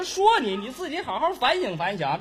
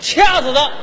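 laughing out a loud joke threat; loud laughing strangle me joke; 7 dB louder than usual. Real, not acted. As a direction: blurt it through a laugh.

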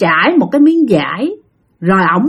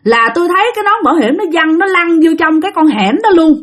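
put-on much higher, rushed voice of a dead teen; voicing a young ghost, higher and faster; ghost's lament; 5 semitones higher, faster than usual. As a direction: plead your story as the spirit. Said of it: "nó nói rằng".

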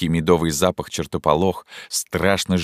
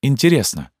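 Zhenya, intrigued; 8 semitones higher, 4 dB louder than usual. A narrator's reading. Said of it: "сказала она, не сводя с него глаз".

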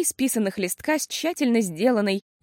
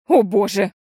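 louder exclamation; exclaiming; 7 dB louder than usual. A narrator's reading. Mother exclaims at the kicked door. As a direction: cry out in dismay. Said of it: "воскликнула мама".

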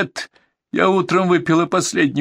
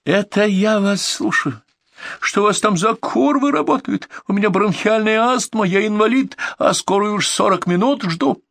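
high furious complaint; shrieking; 12 semitones higher than usual. A narrator's reading. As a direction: rant at full pitch. Caller screaming complaint.

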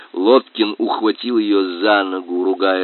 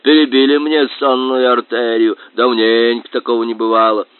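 grunting boar voice; 4 dB louder than usual. Acted. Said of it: "хрюкал он".

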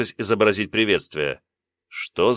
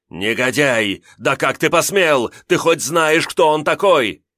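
indignant, louder, higher scolding; angry; 6 semitones higher, 4 dB louder, slower than usual. Acted. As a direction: scold him in outrage. Old servant berates the hero.

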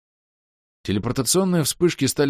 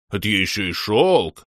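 growled; 4 dB louder than usual. Acted. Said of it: "прорычал полуорк".

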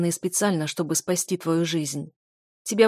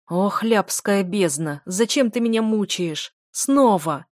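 exasperated outburst; 4 dB louder, slower than usual. Acted.

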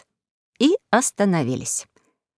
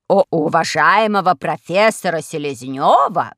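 reverent; slower than usual. Acted. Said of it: "от почтения даже голос изменился".

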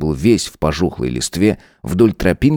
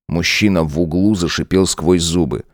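usual speaking voice

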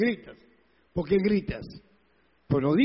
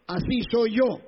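mock self-justification, pitched up; 4 semitones higher than usual. Preacher mimics those excusing their shouting, raised mock protest. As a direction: insist in a mildly raised mock voice. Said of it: "No vengas con el cuento".

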